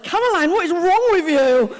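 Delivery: imitating a teacher. Comic voicing her school teachers scolding her, high and loud. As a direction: nag her like a fed-up schoolteacher. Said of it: "the school teachers were like".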